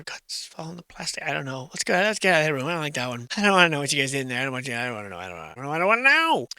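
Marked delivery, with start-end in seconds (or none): 3.3-6.5 mock panicked refusal. Fleeing the room where guts fell, mock panic. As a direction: gabble it under your breath, then squeal.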